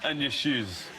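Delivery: hammed-up bad Scottish accent; badly faked Scottish voice; terrible Scottish accent. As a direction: play a TV investor in awful Scottish. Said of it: "That's the worst Scottish accent".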